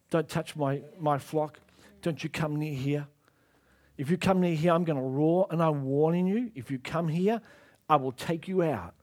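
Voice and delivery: lion voiced as a hushed threat; low quiet threat. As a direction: quietly warn an intruder you will strike. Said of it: "It's saying to the enemy".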